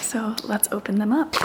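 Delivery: hushed whisper to the camera; quiet whisper before opening. Real, not acted. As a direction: breathe it out like a secret. Starting to open the packages.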